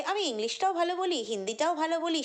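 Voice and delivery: a hint of her showy tune; imitating her tune. Quoting the influencer's boast in a mock sing-song. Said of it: "সেই সুর এক set করতে করতে বলেছিল".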